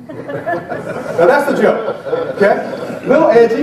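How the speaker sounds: slow words through real laughter; amused, laughing aside. Real, not acted. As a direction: laugh as you wrap up the joke. Laughing at his own joke.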